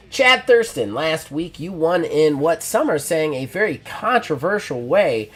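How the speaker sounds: interviewer voice. Acted. Interviewer voiced in wrestling promo.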